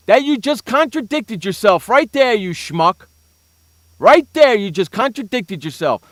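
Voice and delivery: loud, high-pitched scolding; mock tirade. Host catching Skip contradicting himself, loud indignant rant.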